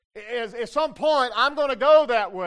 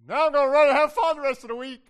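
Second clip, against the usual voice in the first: mock carefree believer; 4 semitones higher, 6 dB louder, faster than usual. Mocking a careless believer.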